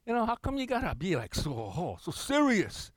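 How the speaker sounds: hint of a needling congregant; mocking questioner. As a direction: lightly voice a skeptical churchgoer. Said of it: "they may say".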